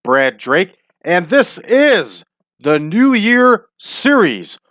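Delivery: big podcast host welcome, punched key words; show intro. Acted.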